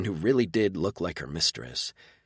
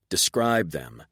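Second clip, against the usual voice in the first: harsh; slower than usual. Acted. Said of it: "adding a note of harshness to my voice".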